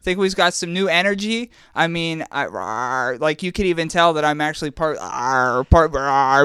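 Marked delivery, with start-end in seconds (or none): 2.4-3.2 jaguar. Pretend. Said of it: "I'm not a human". 5.0-5.7 jaguar. Pretend. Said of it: "I'm not a human". 5.9-6.4 jaguar. Pretend. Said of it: "I'm not a human".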